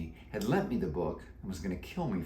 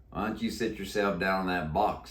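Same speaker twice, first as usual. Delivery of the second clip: deep croaky voice. Acted. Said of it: "said Dusty".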